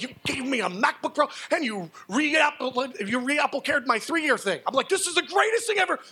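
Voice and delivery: breathless excited retelling; giddy disbelief. Retold or imitated. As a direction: savour each word in amazement. Still freaking out in store.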